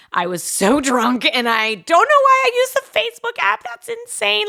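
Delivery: high laughing embarrassed apology. Retold or imitated. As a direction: giggle through the sorry. Apologising for drunk call.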